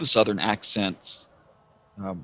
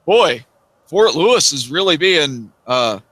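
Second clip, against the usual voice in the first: hungover friend's quip; 4 semitones higher, 4 dB louder than usual. Retold or imitated. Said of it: "Jim's like".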